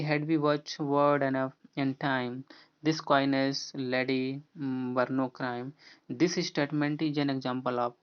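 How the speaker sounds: slow, deliberate reading of the verse line; slow quote reading. Shown as a demonstration. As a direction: read the poem line word by word. Reads poem quote slowly.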